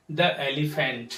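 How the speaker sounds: "the" in "the elephant" as "thuh"; slow "thuh elephant" for "the elephant"; common mispronunciation. Shown as a demonstration. Teacher showing learners' mistake, "the elephant" with "thuh". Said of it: "जो बहुत भारी mistake है".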